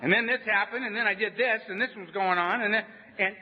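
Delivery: imitating nervous high-pitched talk. Man reading his inventory to his sponsor, scared high voice. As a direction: let the voice climb as if scared. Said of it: "your voice kinda goes up".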